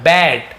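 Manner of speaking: बैट said clearly with an open "ai" vowel; बैट, the vowel as in "bat"; model pronunciation. Shown as a demonstration. Teacher models बैट so beginners copy the vowel. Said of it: "ध्यान देंगे उच्चारण को".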